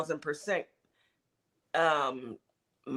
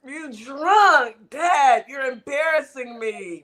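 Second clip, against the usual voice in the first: put-on embarrassed kid voice; 4 semitones higher, 4 dB louder than usual. Voicing kid embarrassed by drunk dad.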